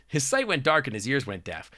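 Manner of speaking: measured storybook reading; story narration. Acted. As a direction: read it out like story prose.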